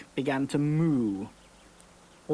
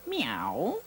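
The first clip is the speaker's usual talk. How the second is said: meowing; 7 semitones higher than usual. A narrator's reading. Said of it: "said the little chick".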